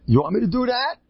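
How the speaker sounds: high, rising incredulous question; mock offer. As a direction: offer it in exaggerated disbelief. Mocking offer to cry along.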